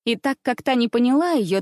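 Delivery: ordinary delivery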